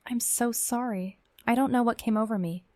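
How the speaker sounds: high, halting then rushed apology; stammered apology. A narrator's reading. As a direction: stumble over the sorry, then blurt the rest. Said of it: "he finally stammered".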